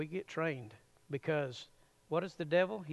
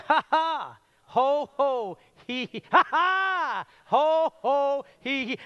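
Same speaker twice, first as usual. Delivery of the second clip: higher and louder hearty ha ha ho ho hee hee; louder forced laugh; 10 semitones higher, 9 dB louder, slower than usual. Shown as a demonstration. Preacher leads the crowd in a bigger, louder laugh. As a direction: throw yourself into the laugh. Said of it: "do it again".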